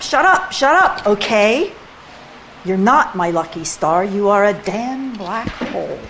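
poetry reading as a furious telling-off; angry poem reading. Acted. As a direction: fling the lines at the lover in a rage. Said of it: "Notice how iambic it is".

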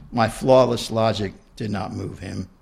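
reading her own book aloud; story narration. A narrator's reading. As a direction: read it out like an author at a reading.

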